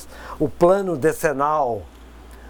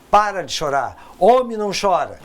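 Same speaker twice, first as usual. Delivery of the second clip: mock scolding; 3 semitones higher, 4 dB louder than usual. Adulto repreende criança chorando.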